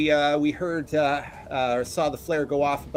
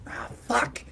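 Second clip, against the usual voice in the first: half-whispered, higher-pitched expletive; whispered "oh no" reaction; dismayed curse; 10 semitones higher than usual. Acted. Game master voices Fumbles' dismayed curse.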